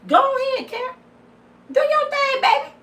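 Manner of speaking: high mock cheer for Karen taking the man; mock sweet encouragement.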